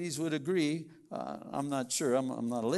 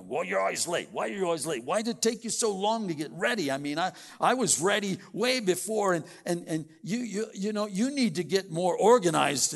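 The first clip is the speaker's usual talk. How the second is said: raised, nagging complaint at a late spouse; mock nagging spouse; 3 semitones higher, 4 dB louder than usual. Spouse nagging in the car on the way to church, raised complaint. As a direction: scold your spouse for always being late.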